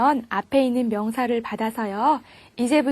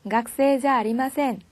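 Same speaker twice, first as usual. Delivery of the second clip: slow model answer. Shown as a demonstration. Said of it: "저는 어떻게 대답을 할까요".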